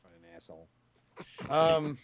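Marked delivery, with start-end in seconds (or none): 0.0-0.7 faint distant mutter; muttered far off-mic. Real, not acted. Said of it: "I can't hear you".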